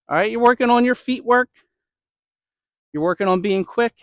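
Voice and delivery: slightly winded, catching breath. Real, not acted. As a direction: talk while short of breath after throwing. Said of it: "Excuse me if I sound out of breath".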